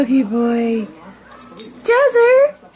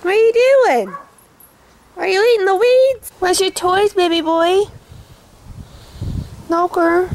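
dog talk; 6 semitones higher than usual. Real, not acted. Owner talking to her dog.

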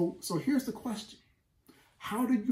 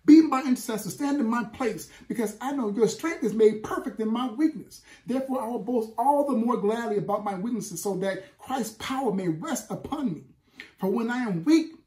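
raised, louder plea, higher pitched; yelling out to God; 4 semitones higher, 4 dB louder than usual. Acted. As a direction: cry out to the Father from the gut. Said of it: "you cry out, you yell out".

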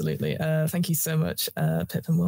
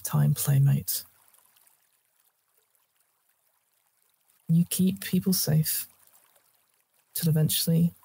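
story narration. Acted. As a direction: draw the tale to a close. GM closing scene narration.

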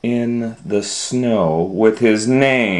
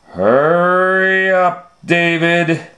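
impatient parent; 8 semitones higher than usual. Acted.

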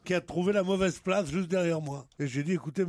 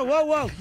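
dog bark imitation; 6 semitones higher, 4 dB louder than usual. Shown as a demonstration. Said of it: "Ou le chien".

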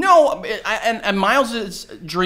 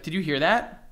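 hushed retold question; 6 dB quieter than usual. Couple woken at night by sounds.

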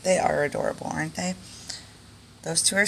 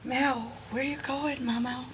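higher and softer, cooing after her; pet-talk voice; 6 semitones higher, 6 dB quieter than usual. Real, not acted. Owner cooing after her chinchilla as it hops away. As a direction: coo at the pet as it runs off.

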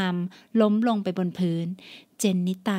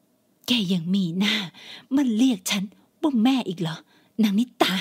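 angry mother. Acted. Mother scolding daughter.

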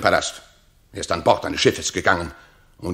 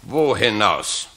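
calling out; 4 dB louder, slower than usual. Acted. Autolycus hailing the peasants.

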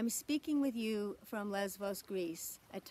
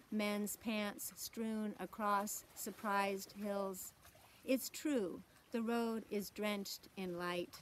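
poetry reading. Acted. Poet reads a sea-crossing poem to a conference, measured poetry reading. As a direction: read it as verse, lingering on key words.

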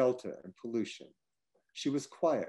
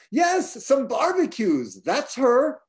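much higher, louder, delighted exclamation; gleeful high echo; 12 semitones higher, 5 dB louder, slower than usual. Retold or imitated. Han at the table, gleefully echoing the barbecue line, much higher and louder. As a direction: cry it out in sudden glee.

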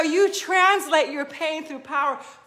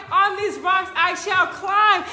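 proclaimed. Shown as a demonstration.

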